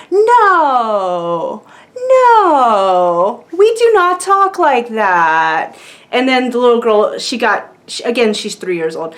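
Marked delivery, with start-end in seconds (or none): 0.1-5.8 drawn-out mock scolding in a British accent; slow, firm telling-off, put-on British parent. Imitating parents correcting their three-year-old, slow British scolding. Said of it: "this is all in British accents".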